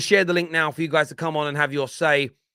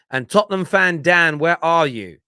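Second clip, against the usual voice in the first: louder, calling for the caller; 2 semitones higher, 7 dB louder than usual. Real, not acted. Host calls out for caller Dan, louder. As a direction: call across for Dan to come in.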